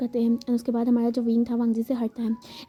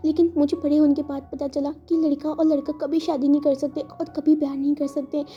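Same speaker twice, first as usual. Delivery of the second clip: tearful confession; 3 semitones higher than usual. Acted. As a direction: confess love while holding back tears.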